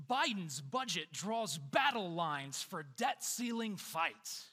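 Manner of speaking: booming fight-night announcer hype; WWE announcer voice. Retold or imitated. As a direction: sell each headline like a title bout. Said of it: "in my best W W E announcer voice".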